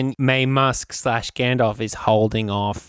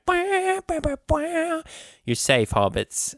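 mock heroic rescuer; much slower than usual. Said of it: "and he's like".

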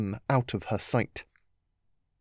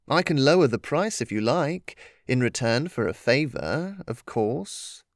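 sly teasing trickster spirit. Acted. Impostor voiced, sly.

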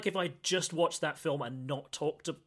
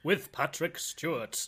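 lightly hammed-up stage actor voice; a hint of grand theatrical delivery; Patrick Stewart theatrical voice. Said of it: "but that's my best theatrical".

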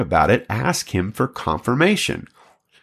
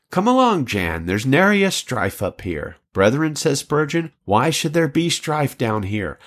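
put-on expressive reading of an old sermon anecdote; story narration. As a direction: read the tale aloud with lifted key phrases. Reads a story aloud.

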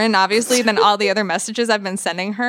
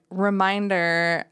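Alexa voice; slower than usual. Pretend. Fake Alexa announcement.

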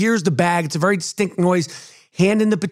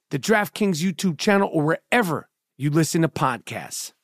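ad read. Acted. Reads a podcast ad.

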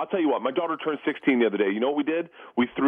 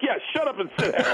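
he's like; 9 semitones higher than usual. Retold or imitated. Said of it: "And he's like".

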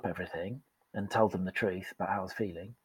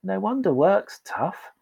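higher, slow, gently amazed; sympathetic awe; 5 semitones higher, slower than usual. Retold or imitated. Coach to struggling colleague, amazed and kind. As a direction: reassure them warmly. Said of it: "I'd be like".

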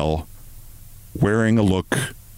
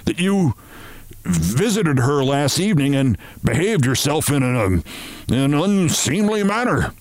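higher, halting delicacy; awkward company chief; 4 semitones higher than usual. Acted. Chief telling Martin of the accusation, awkward. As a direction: stumble towards the polite word.

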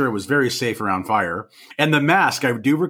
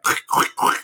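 clicking noise. Retold or imitated. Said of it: "you know, like".

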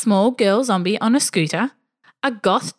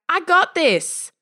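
slow, firm, confident call; confident call back; 8 semitones higher, slower than usual. Acted. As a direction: reassure her mom, unafraid. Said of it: "She yelled back".

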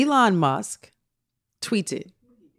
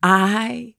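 slow, low, deliberate declaration; long pauses, weighing every word; Jim Carrey; 4 semitones lower, slower than usual. Retold or imitated. Host imitates actor announcing retirement, slow and solemn. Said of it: "This is how he talking".

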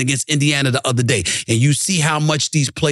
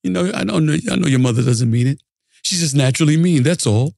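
Ralph Kramden. Retold or imitated. Husband to wife Alice about her mother, mock calm rising to yell. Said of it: "all calm".

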